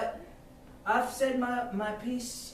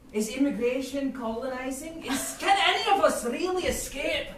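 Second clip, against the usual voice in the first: mock sermon. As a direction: preach it like a street prophet. Bird preaching about colonization.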